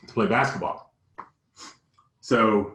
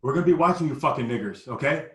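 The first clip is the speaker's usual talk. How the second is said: parting racist threat; 4 semitones higher than usual. Retold or imitated. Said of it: "it sort of ends".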